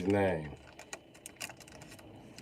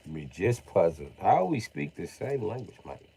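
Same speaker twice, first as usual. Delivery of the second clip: put-on British accent, puzzled; lightly hammed British bloke; puzzled mock-British accent; 3 semitones lower than usual. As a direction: play a puzzled Brit. Acting puzzled Englishman's speech.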